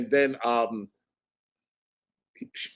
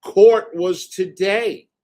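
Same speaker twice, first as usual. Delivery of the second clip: higher, slow, mocking her fake surprise; mock innocent voice; 6 semitones higher, 5 dB louder, slower than usual. Mocking the ex playing innocent about court. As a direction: play dumb in a sing-song.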